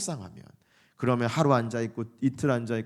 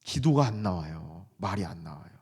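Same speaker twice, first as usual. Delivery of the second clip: downcast, trailing into softness; upset; 9 semitones lower, 5 dB quieter than usual. Acted. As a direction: let the voice sink, heavy with upset. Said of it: "속상할 때 있잖아요".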